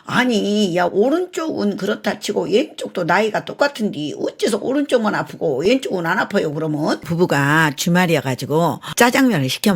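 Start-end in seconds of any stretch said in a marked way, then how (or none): none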